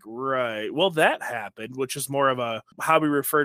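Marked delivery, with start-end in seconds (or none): 0.0-1.8 slow, dry "well, that happened"; mock someone who just ran their mouth, dryly; dry half-joking, half-condescending. Shown as a demonstration. Host showing how they dismiss stupid people, slow and dry. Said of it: "this weird combination of both where it's like".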